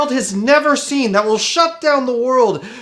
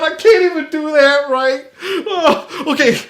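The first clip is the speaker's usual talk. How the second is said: sobbing through a laugh; laugh-crying. Acted. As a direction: cry and laugh at once.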